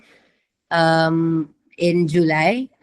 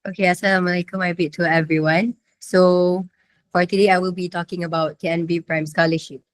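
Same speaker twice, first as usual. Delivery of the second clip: speaking with a sore throat; talking through a sore, feverish throat. Real, not acted. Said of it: "I'm having sore throat right now and fever".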